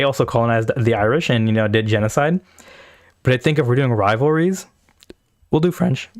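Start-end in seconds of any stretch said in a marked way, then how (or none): 5.5-6.1 voice crack. Real, not acted. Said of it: "Fucking voice crack".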